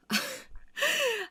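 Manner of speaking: high burst of imitated laughter; a falling burst of laughter, like the husband; husband's laugh. Husband still laughing at his wife's question, high burst. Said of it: "한참 웃다가".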